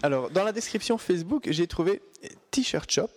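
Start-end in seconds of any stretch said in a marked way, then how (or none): 2.5-3.1 English names read out with a French accent. Real, not acted. Host reading out a Facebook description, French-accented English. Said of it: "excusez-moi pour mon accent".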